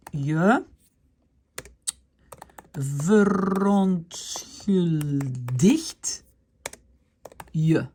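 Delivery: verontschuldigt drawn out very slowly; slow dictation. Shown as a demonstration. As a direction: sound it out syllable by syllable while writing. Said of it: "saying the word while writing".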